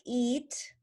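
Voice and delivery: "eat" with a stretched "ee"; long E. Shown as a demonstration. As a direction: linger on the vowel of "eat". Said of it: "the long sound is".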